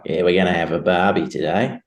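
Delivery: a light Australian accent, easygoing; casual Aussie barbie talk in a mild Australian accent; lightly put-on Australian accent. Shown as a demonstration. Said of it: "if you want a real Aussie accent".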